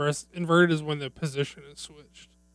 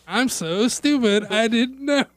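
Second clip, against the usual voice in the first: slow, higher, playing dumb; mock dumb excuse; 5 semitones higher, slower than usual. Friend mocking the thief's excuse, slow and dopey. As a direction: play dumb slowly.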